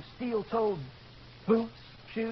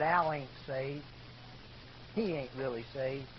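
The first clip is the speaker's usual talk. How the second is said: skeptical; 8 semitones lower, 9 dB quieter than usual. Retold or imitated. Gar doubting Al to Gordy, quietly skeptical. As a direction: drop it low and unconvinced.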